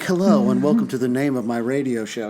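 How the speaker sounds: lightly imitated radio-presenter voice; radio host. Same man now on the radio, in mock presenter voice. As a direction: mimic a standard radio welcome. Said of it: "You listen to him on the radio".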